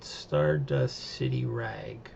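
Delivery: slow, hushed whisper of the title; dramatic whisper. Acted. Reviewer names the episode title in a slow dramatic whisper. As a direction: breathe the title like a secret.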